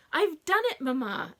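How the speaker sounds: bright, loud burst of triumph; triumphant young inventor. A narrator's reading. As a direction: announce it proudly to Mamma. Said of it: "Emma said in triumph".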